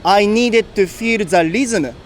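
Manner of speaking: slow English with heavy Japanese accent; thick Japanese accent. Shown as a demonstration. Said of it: "in thick Japanese accent".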